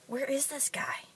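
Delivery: soft, high, half-whispered wondering; baffled inner voice. Retold or imitated. Wife thinking to herself about her vanished husband, hushed bafflement. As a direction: think it aloud, hushed and incredulous.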